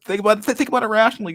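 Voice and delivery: Jordan Peterson impression. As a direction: parody a grave self-help lecturer rambling. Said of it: "Like, Jordan, please".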